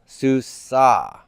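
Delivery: susa with the stress on the final A; stress on the ending. Shown as a demonstration. Teacher showing students final stress on susa. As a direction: land on the last syllable of susa. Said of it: "where is the stress on feminine singular endings".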